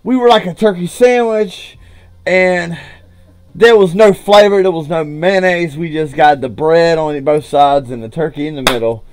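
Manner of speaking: upbeat sign-off to viewers; YouTube outro. Acted. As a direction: wrap up the video for your audience.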